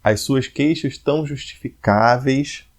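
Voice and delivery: slow, measured reading of the line; scanning a verse. Shown as a demonstration. Teacher reading the verse slowly for students. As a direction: read it slow, counting the beats. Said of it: "volto pros decassílabos".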